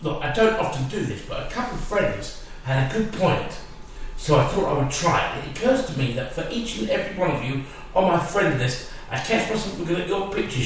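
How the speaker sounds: reading a chain post aloud with mock sincerity; deadpan recital of a soppy Facebook message; mock-earnest post read. Reading a friend's chain post to his mate, mock-earnest.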